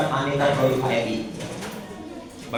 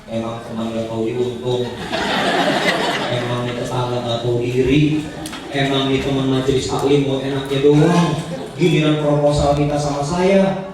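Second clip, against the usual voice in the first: grumbling resentment; 3 semitones lower than usual. Pretend. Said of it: "jangan racuni hati kita dengan mengatakan".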